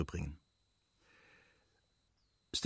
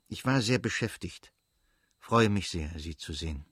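unhappy tone; 3 semitones lower than usual. Acted. Karenin forcing a greeting to Dolly, reluctant and fading. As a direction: say it like you wish you weren't here. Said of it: "in einem Ton, der deutlich machte, wie unfroh er war".

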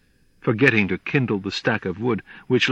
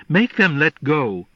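higher, louder cry; 4 semitones higher, 3 dB louder than usual. Acted. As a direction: call out urgently. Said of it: "I cried".

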